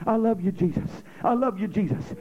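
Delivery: low, soft loving praise; soft worship. Shown as a demonstration. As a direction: murmur tender praise. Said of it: "When you start praising the Lord".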